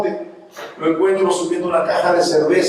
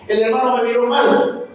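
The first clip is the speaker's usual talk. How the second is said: mock-aggrieved church member, quick and higher; whiny complaint; 5 semitones higher than usual. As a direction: rattle off petty grievances like a sulking member. (miembro quejoso, agudo y rápido)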